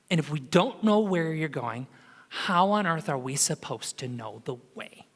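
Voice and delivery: quiet, pleading and lost; desperate plea. Retold or imitated. Thomas asking Jesus where he is going, quiet desperate plea. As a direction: beg softly, confused and anxious. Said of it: "in a sense of desperation".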